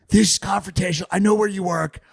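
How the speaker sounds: lightly mock the mayor's raspy threat; half-hearted raspy snap at a reporter; Lori Lightfoot raspy voice. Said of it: "like, raspy, guttural voice".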